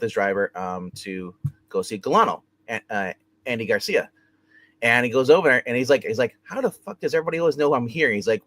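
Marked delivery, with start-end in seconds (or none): 6.4-8.1 higher, quick mock-incredulous question; retold exasperation. Retelling how he got caught arriving, mock exasperated. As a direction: act out his bafflement in a rush.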